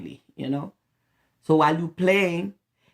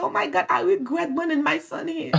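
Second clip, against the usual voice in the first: regretful mom; 10 semitones higher than usual. Retold or imitated. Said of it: "I said".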